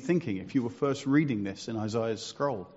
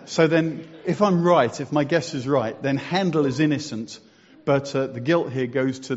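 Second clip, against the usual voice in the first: excited; 7 dB louder than usual. Real, not acted. Excited point after laughter.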